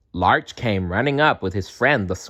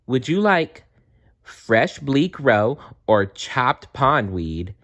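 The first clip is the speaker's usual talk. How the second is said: cheerful frog; 4 semitones higher, slower than usual. Acted. Happy Frog offers food.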